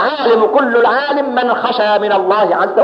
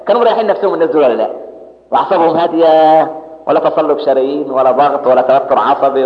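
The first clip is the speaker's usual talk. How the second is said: ordinary talk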